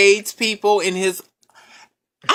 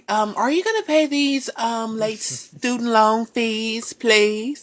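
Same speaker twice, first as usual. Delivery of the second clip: bill collector; 4 dB quieter, slower than usual. Pretend. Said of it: "someone was calling you".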